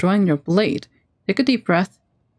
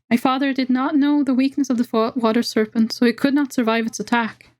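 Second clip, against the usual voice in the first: a bit higher, mild grief in the elf voice; higher elf voice, understated sadness; lightly squeaky elf; 5 semitones higher than usual. Acted. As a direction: tell it with a touch of sorrow.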